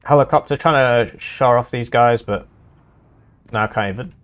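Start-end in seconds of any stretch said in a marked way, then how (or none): 3.5-4.1 talking through hiccups; words broken by hiccups. Real, not acted. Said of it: "just got the hiccups".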